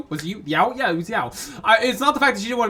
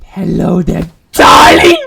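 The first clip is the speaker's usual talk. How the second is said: sultry greeting; 3 semitones lower, 9 dB louder than usual. Acted. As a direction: purr the greeting. Voicing creepy character greeting.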